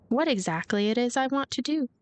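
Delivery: ordinary talk, nothing marked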